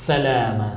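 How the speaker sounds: سلام with a thin, light sin; thin letter sin. Shown as a demonstration. Teacher showing viewers a thin letter, thin sin in سلام. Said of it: "پتلا ادا کیا جاتا ہے".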